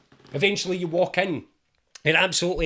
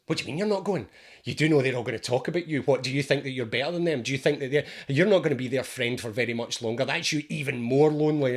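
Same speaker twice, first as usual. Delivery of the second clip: nagging inner voice; 5 semitones lower, faster than usual. Retold or imitated. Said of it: "this voice then jumps in and goes".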